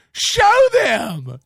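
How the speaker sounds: high, loud demand; angry shout. Real, not acted. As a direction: bark it at him. Angry rant at Kevin.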